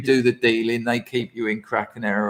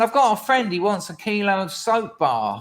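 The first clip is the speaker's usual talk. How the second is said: a lightly mimicked bloke, pitched much higher; chirpy caller, voice raised high; imitating the caller; 8 semitones higher than usual. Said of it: "He said".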